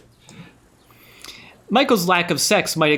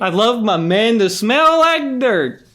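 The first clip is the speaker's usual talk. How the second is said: higher, louder, slow swooning; sultry mock reading; 7 semitones higher, 5 dB louder, slower than usual. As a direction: ham it up like a cheesy romance. Hammy reading of steamy diary.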